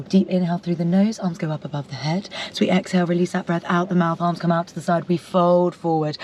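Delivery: yoga teacher voice. Retold or imitated. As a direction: talk the class through a stretch. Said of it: "I always go".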